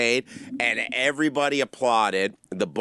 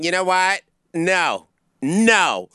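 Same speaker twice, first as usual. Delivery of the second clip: rising, louder huffy "we're leaving"; indignant outburst; 5 semitones higher, 4 dB louder, slower than usual. Retold or imitated. Offended patron storming out of the comedy show, loud indignant. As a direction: play the offended patron walking out in a huff.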